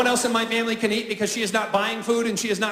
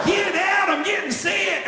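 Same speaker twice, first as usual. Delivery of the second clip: panicked wife yell; 9 semitones higher, slower than usual. Acted. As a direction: shriek it like a sick, frantic wife. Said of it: "She goes".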